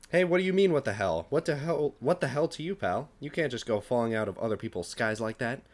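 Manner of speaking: indignant rant fading to plain; mild hammed-up shout; mock yell. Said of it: "he yelled".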